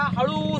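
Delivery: हळू with a long, stretched last vowel; drawn-out हळू. Shown as a demonstration. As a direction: stretch हळू slowly to show a gentle release. Shows how slowly clutch is released.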